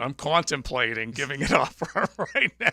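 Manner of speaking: put-on laughing Boston accent; lightly put-on Boston accent. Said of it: "In my best Boston accent".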